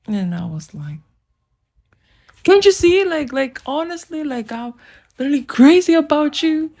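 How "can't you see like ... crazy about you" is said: hammed-up lovesick appeal; pleading confession. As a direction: plead your love, acted out. Retold love declaration.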